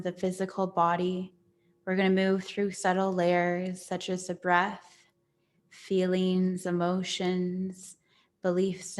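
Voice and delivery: guided meditation. Real, not acted. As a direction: settle gently into calm, with long pauses between phrases.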